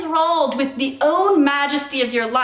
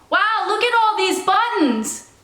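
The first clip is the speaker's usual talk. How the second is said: exclaiming to the air; 6 semitones higher than usual. Shown as a demonstration. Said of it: "expositing into the air your thoughts".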